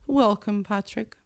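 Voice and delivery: curt, cold welcome; clipped formality; stiff. Acted. Nick greeting Patrick, stiff. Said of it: "said Nick stiffly".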